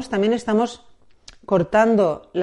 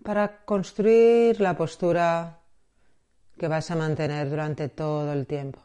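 measured meditation guide, long pauses between phrases; guided meditation. Acted. Guide preparing listener for body scan and breathing, guided meditation. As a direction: lead gently into the practice, leaving space.

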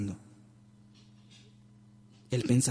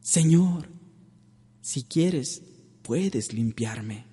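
humble plea; much slower than usual. Retold or imitated. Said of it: "suplicaba humildemente".

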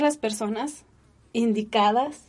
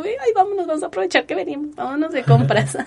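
higher, fast, ending in a laugh; eager retold quote; 5 semitones higher, faster than usual. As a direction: rush it out like a giddy invitation. Retold eager shopping after chemo.

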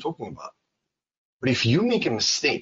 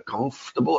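COMFORTABLE with a strong CUMF; stress on COMF; 2 semitones higher than usual. Shown as a demonstration. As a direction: hit the first syllable of "comfortable". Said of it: "I stress the comf".

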